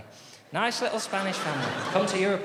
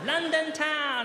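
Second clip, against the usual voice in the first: laughing; 8 semitones higher, much slower than usual. Acted. Dad echoes, laughing.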